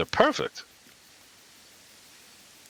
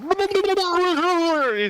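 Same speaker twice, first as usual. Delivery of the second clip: high, very slow stretched wail; drawn-out howl. Retold or imitated. Mimicking villain howl.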